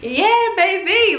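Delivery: high, slow, cooing love talk to a crush; swooning coo. Retold or imitated. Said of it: "I'm like".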